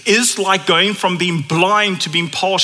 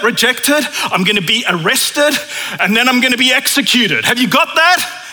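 Jesus spelling it out. Retold or imitated. Jesus tells the twelve his fate, building insistence. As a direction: lay out the hard plan, pressing harder each time.

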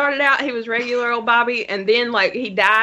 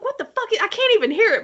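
retold exasperation; 10 semitones higher, faster than usual. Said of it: "I'm like".

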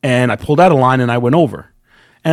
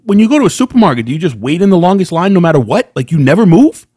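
raised-pitch, indignant questioning; mild mock yell, pitched up; retold yelling back; 4 semitones higher, faster than usual. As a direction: argue back in heated, rising questions. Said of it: "Now I'm yelling back at her".

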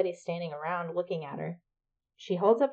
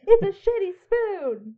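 laughing rerun; 14 semitones higher, 5 dB louder than usual. Acted. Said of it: "That was very Billy Eichner of you".

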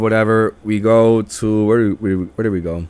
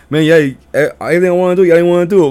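higher-pitched whiny retelling of a friend; raised-voice grumble, played back; mock complaining; 7 semitones higher, 5 dB louder, much faster than usual. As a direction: imitate a buddy griping about the plans. Voicing friend's complaint after trip.

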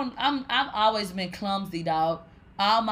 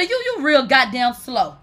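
self-scolding; 2 semitones higher, 6 dB louder than usual. Retold or imitated. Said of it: "I got mad at my damn self".

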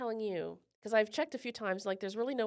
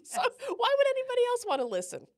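self-mocking; 14 semitones higher, 7 dB louder than usual. Real, not acted. Self-mocking doubt about the podcast.

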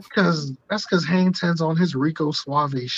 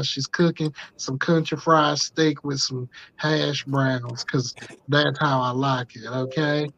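put-on Southern white man accent. Prank voicemail to Tammy Jean as a Southern dad, lightly put-on Southern accent. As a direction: play a folksy Southern father leaving a voicemail. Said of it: "this accent of, like, a Southern white man".

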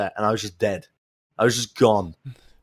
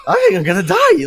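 squeaky high-pitched laughing wail, louder; half-laughing mock panic, pitched way up; 5 dB louder than usual. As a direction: squeal it out through laughter, much higher. Retold quote, laughing and squeaky.

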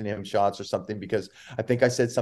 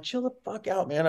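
retold comeback; 8 semitones higher, 4 dB quieter than usual. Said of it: "And I'm like".

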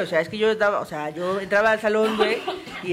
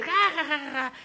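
mock child laugh; 6 semitones higher than usual. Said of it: "se empezaba a reír".

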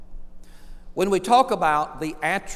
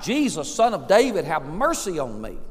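mildly raised voice, falling away; crying out. Retold or imitated. Blind beggar to Jesus passing by, crying out. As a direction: call out, not yet at full force. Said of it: "he cried out".

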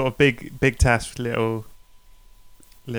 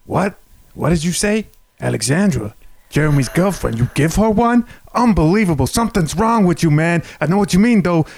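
mock outrage; 3 semitones higher than usual. Acted outraged gangster reply.

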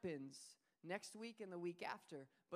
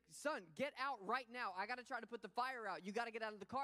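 urgent father; 3 semitones higher, 4 dB louder than usual. Retold or imitated. Father ordering his son out of a burning field, urgent. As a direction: order the boy out of the car. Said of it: "He's like".

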